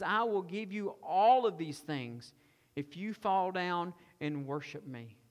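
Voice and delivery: slow, tempting Satan voice; voicing Satan. Satan tempting Jesus in the wilderness, slow and coaxing. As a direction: lean in and offer it slowly. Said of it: "he says".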